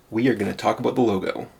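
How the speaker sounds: fast, punchy YouTuber intro voice. Shown as a demonstration. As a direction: hype it up like a YouTube host. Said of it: "My best YouTuber voice".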